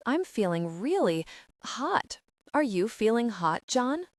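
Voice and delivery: husky voice. Acted. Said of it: "husky voice".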